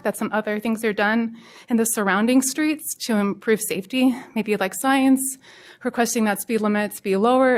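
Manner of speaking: breathless from running; winded, catching breath while talking. Real, not acted.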